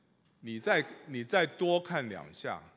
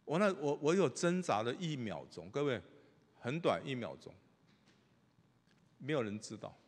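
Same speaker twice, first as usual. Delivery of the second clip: normal talking voice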